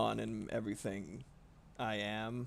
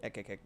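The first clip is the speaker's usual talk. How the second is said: imitated cat kek; 3 semitones lower, 9 dB quieter, much faster than usual. Shown as a demonstration. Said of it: "know how to kek".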